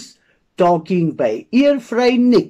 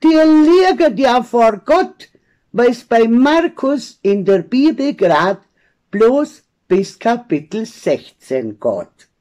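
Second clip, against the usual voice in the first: schimpfender Pfarrer; 3 semitones higher than usual. Acted. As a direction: tell them off as liars, pitch jumping up at first. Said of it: "schimpft er gleich". (vorwurfsvoll schimpfen, hoch einsetzend)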